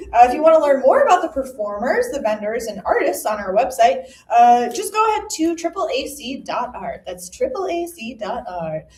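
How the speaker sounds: upbeat ad read voice; commercial voice. Shown as a demonstration. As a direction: sell it like a radio ad. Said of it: "that's my commercial voice".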